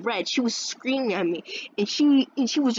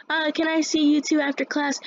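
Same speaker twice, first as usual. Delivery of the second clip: higher-pitched teacher voice; mimicked teacher; 8 semitones higher than usual. Teacher asking two pupils to stay after class, mimicked high voice.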